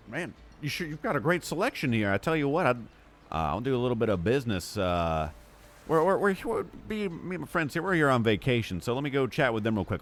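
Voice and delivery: butter up the merchant, stumbling a little; eager people-person patter; schmoozing customer. Acted. Player as Larry schmoozes the Minotaur.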